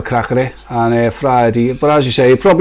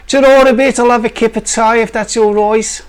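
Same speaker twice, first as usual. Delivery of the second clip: higher, broad Black Country farewell; Black Country accent; 7 semitones higher than usual. Pretend. Saying goodbye on stream in a hammed-up Black Country accent. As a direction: say ta-ra a bit in broad Yam Yam. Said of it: "that's Black Country".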